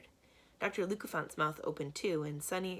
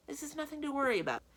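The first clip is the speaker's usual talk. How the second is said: smoothly; 10 semitones higher, faster than usual. A narrator's reading. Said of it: "Stefano interrupted smoothly".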